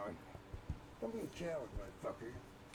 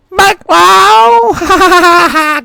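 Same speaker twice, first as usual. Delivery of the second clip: high, loud triumphant cackle; loud mocking laughter, much higher; gotcha laugh; 9 dB louder than usual. Real, not acted. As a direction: burst out laughing at the prank. Pranking kids, got you.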